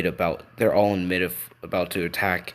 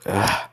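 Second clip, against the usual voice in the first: short groan of a wounded hero; exasperated, hurting "ugh"; pained groan; 4 dB louder than usual. Acted. Wounded hero reacts to bad news.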